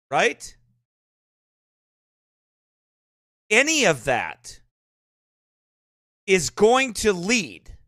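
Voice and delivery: slow, deliberate sermon warning with long pauses; solemn preaching. Real, not acted. Pastor warns congregation against compromising with sin, solemn preaching. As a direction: preach it slowly, weighing each phrase.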